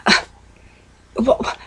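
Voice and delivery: high, incredulous and nagging; daughter's exasperation. Retold or imitated. Pregnant daughter complaining to her mother about crocheting in the car, high and nagging. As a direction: repeat the why like a fed-up daughter. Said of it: "She goes".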